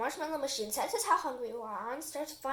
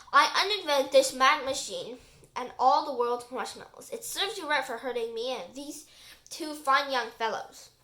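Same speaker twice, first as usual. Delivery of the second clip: professor voice; 5 dB louder than usual. Acted. Professor casting his spell.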